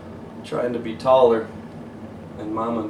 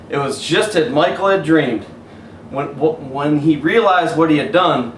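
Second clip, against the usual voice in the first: higher, lively play-by-play build; excited storytelling; 5 semitones higher, 6 dB louder than usual. A narrator's reading. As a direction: narrate the winning shot with thrill. Excited game narration.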